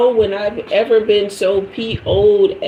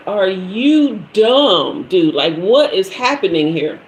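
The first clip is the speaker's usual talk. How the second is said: slow incredulous jab; 2 semitones lower than usual. Retold or imitated. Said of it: "cussing him out in my mind".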